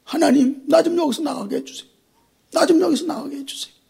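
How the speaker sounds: soft, pleading prayer; a hushed plea to God; desperate prayer. Acted. Joseph in the pit praying to God, soft pleading.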